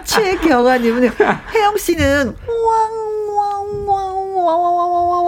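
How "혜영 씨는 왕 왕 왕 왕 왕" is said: high yelping wang wang chant. Retold or imitated. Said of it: "왕 소리를 가장 잘하는 것 같아요".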